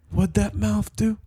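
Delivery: drawn-out mock leer; hammed-up leering question. Friend quoting Caesar's leer, high slow voice. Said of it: "did he ask you".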